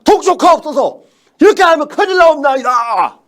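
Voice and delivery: hammed-up, high, loud cry of remonstrance; loyal courtier's plea. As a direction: implore the king at full volume, dragging out the warning. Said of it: "충신은 뭔지 아세요".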